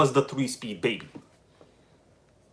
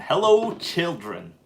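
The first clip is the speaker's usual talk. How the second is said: Chef greeting; 3 semitones higher, slower than usual. Retold or imitated. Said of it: "I used to love me some South Park".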